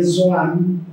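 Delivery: Zoan com Z no lugar do J; sotaque italiano. Retold or imitated. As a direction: imitando o imigrante italiano: Zoan. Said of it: "mas a pronúncia, ela saía". (Zoan com sotaque italiano leve)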